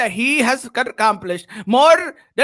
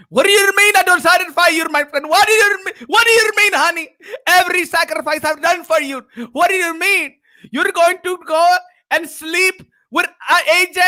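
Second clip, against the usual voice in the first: higher, pleading and indignant; mock hurt husband; 5 semitones higher than usual. Husband pleading with his wife, mock wounded. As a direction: play the wronged husband, hammed-up.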